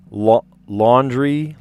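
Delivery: drawn-out "laundry" with a New York vowel; New Yorkified laundry. Shown as a demonstration. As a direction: say "laundry" slowly as "LAWN-dree". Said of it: "I say laundry in a funny way".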